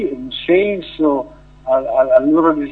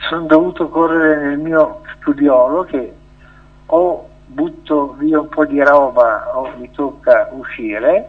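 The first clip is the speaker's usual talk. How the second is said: breathless after running; talking winded from the dash; out of breath. Real, not acted. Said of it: "ho il fiatone".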